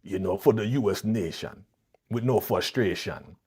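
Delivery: rhyming, hammed-up Jamaican patois; mock Jamaican accent. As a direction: parody a bad Jamaican accent, drawing out each rhyme. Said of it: "Jamaican accent".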